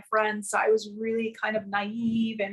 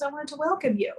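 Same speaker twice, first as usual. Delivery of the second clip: lightly raised imitation of a friendly woman; imitating Diane; 5 semitones higher than usual. Diane greeting the homesick girl, lightly higher imitation. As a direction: lift the pitch a little, welcoming. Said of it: "She goes".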